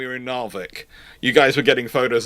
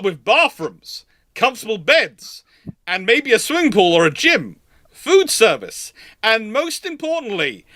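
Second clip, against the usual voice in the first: mock-prim request; 7 semitones higher than usual. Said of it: "And we go".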